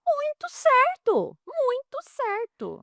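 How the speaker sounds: high, slow and emphatic; delighted emphasis. Real, not acted. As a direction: savour the good news, stretched out high. Proud result of advice.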